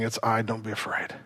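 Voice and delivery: soft, hushed comfort; whisper-soft reassurance to a listener in need; tender reassurance. Retold or imitated. Jesus speaking to the worried listener, very soft. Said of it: "the voice of Jesus saying".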